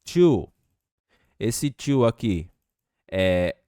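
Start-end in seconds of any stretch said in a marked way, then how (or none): 0.0-0.5 "to." punched high and loud; stress on to. Shown as a demonstration. Teacher pointing out the second "to." to students. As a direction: hit "to." hard and high. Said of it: "perceba que tem dois".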